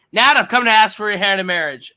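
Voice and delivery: loud, high theatrical proposal; hammed-up movie-hero announcement; bold declaration. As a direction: proclaim it grandly to the whole bar.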